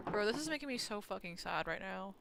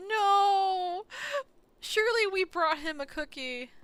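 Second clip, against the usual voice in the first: shouted, much higher; loud outrage; 11 semitones higher, 10 dB louder, slower than usual. Real, not acted. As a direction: shout it in playful disbelief. Reacting to the game scene.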